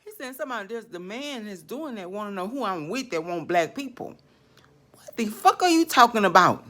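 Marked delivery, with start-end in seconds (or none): 4.9-6.6 angry demand. Real, not acted. Ranting at spirit, louder.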